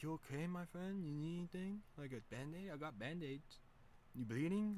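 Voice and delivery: high, caring imitation of Ted; concerned helper. Ted checking on a friend who fell off a skateboard, high and concerned.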